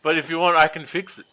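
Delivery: high, loud eager creature voice; pushy little goblin offering help; squeaky goblin voice. Acted. Goblin character coaxing over treasure.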